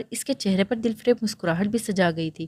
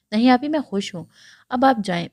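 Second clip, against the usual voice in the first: bright little chirp, pitched higher; a touch higher, bubbly reply; chirpy and cheerful; 4 semitones higher than usual. Acted. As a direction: chirp it like a happy little sister. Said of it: "چہکتی بولی".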